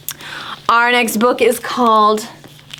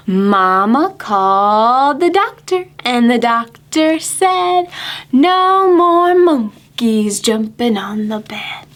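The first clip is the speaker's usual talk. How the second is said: put-on slow, sing-song rhyme for kids; reading to children; 3 semitones higher, slower than usual. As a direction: read it slowly to little ones. Reads a counting rhyme to children.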